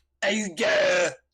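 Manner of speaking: loud, high, clumsy put-on Cockney accent. Voicing the figure that turns and looks out at the hall, worst Cockney accent. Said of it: "like the worst British accent uh, version of Cockney".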